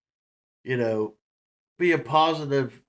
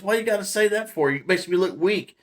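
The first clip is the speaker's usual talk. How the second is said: mock indignant complaint; 5 semitones higher than usual. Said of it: "He goes".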